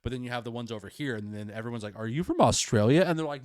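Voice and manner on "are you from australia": higher, louder imitated query; mock questioning. Stranger asking a Brit about origins, mock puzzled. Acting people mistaking Brits for Australians.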